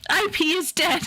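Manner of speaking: high shout into a laugh; high anguished cry that breaks into laughter; mock anguished shout. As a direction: yell it like a wounded fan, then crack up. Mourning the franchise, shouting.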